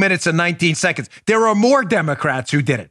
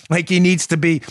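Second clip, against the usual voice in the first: usual speaking voice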